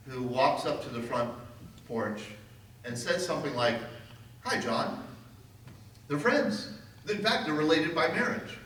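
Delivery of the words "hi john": mock friendly greeting. Retold friendly greeting to Neville.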